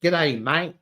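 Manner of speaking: half-successful Queensland twang; lightly put-on Queensland accent; attempted Queensland accent. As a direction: have a go at a Queensland g'day. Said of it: "that Queensland accent happening".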